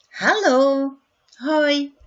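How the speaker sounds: cheerful greeting. Shown as a demonstration. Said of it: "modelling greetings brightly".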